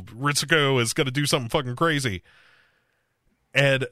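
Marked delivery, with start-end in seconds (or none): 0.0-2.2 fast, higher urgent call; a fast, high panicked plea to meet; urgent alarm. Retold or imitated. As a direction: rush it out, sounding the alarm. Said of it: "he's like".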